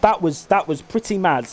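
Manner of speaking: breathless after shouting; out of breath. Real, not acted. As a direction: catch your breath between words. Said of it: "I'm out of breath now".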